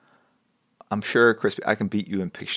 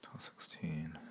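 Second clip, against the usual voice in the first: whispering; 2 semitones lower, 18 dB quieter, slower than usual. Real, not acted. Mutters the time to herself.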